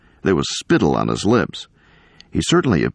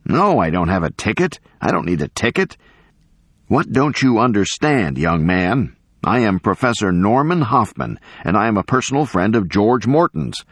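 affronted professor, pitched up; indignant old professor; 5 semitones higher than usual. Acted. Professor protesting to the young man about his ticket, indignant. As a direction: insist on your standing, impatiently.

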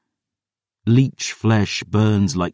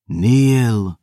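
a cold command from twin vampires; icy command to kneel; 4 semitones higher than usual. A narrator's reading. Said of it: "The command rang in my head".

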